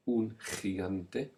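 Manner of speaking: un gigante very slowly, gi as raspy khi; teacher drills gigante slowly for learners; breathy ch sound. Shown as a demonstration. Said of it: "be aware of the spelling changes to make the ch sound".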